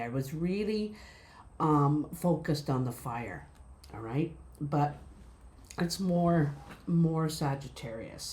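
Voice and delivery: talking with gum in mouth; chewing gum while speaking. Real, not acted. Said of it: "I forgot I had gum in my mouth".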